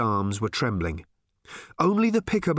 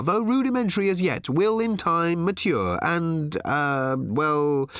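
mock-formal speech with hesitations; formal farewell aloud; 3 semitones higher than usual. A narrator's reading. Arthur bids Thrashbarg farewell, formally, losing his thread. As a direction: grow higher and loftier, then falter into fillers. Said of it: "Aloud, he said".

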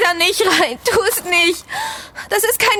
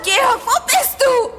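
tearful calling; 4 semitones higher than usual. Acted. Calling lost friend, crying.

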